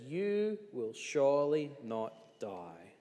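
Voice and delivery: slow, coaxing snake voice; lightly voiced tempter, stretching each word; crafty serpent. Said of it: "and says".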